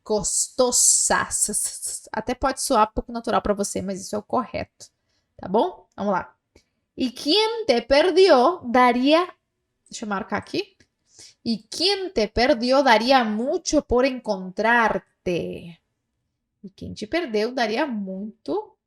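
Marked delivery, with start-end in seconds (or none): 0.0-1.3 "costosa" slowly with a clean s; slow Spanish S. Shown as a demonstration. Teacher giving the correct costosa slowly. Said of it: "Então fica". 11.4-15.8 slow dictation. Shown as a demonstration. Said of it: "slow reading for repetition".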